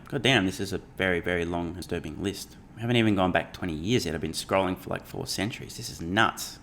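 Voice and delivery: soft, fast muttered aside while scrolling; muttering to himself. Real, not acted. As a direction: trail off under your breath, half to yourself.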